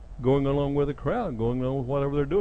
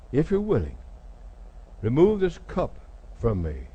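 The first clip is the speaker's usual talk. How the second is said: hesitant prayer. Retold or imitated. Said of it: "You almost see an hesitancy here".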